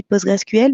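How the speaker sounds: "PostgreSQL" drawn out slowly as the full written name; silent Q and L. Shown as a demonstration. Guest giving the French a memory trick, slow full name. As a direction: slowly spell out the tail of "PostgreSQL". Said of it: "le Q et le L sont muets".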